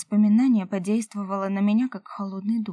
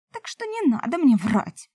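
a touch of sobbing, higher and louder; 5 semitones higher, 6 dB louder than usual. A narrator's reading. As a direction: say it through half-held tears. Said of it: "всхлипывая".

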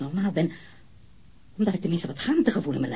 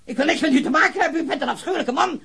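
hysterical laugh; 10 semitones higher than usual. Acted. Suspect breaks down, high laughing.

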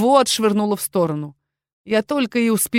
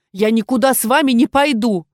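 defiant refusal; 3 semitones higher, 4 dB louder than usual. Acted. Refuses, scared.

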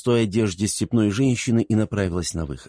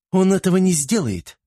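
much higher, louder insolent retort; brazen; 11 semitones higher, 4 dB louder than usual. A narrator's reading. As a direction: throw it out cheekily, sure of herself. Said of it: "нагло заявила девушка".

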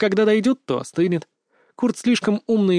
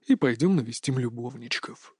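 murderous tone; 4 semitones lower, 6 dB quieter than usual. A narrator's reading. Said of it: "таким убийственным тоном".

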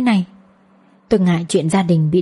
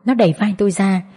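ordinary delivery

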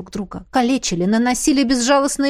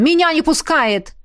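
крик; 6 semitones higher than usual. Acted. Джаф кричит из-под купола.

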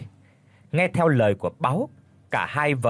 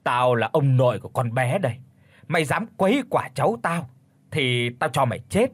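mild shout. Acted. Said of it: "Báu được đà quát lớn".

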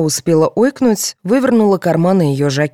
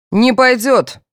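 firm, loud, raised refusal; curt refusal; 8 semitones higher, 5 dB louder, slower than usual. A narrator's reading. Policeman refusing the mother's offer, curt. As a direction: shut the request down. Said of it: "отрезал Владимир".

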